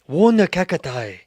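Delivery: slow, loud Asian-accented "One cacti"; mock Asian accent. Shown as a demonstration. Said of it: "Don't do that".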